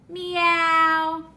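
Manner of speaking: drawn-out, even kitty meow; kitty cat meow. Pretend. Teacher showing a toddler what a cat says, drawn-out meows. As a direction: stretch out a gentle imitation meow. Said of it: "What does a kitty cat say?".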